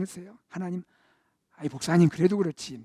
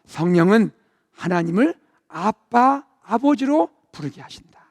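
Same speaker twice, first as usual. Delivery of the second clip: slow reading; 4 dB louder, slower than usual. Shown as a demonstration. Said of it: "다 같이 읽어볼까요?".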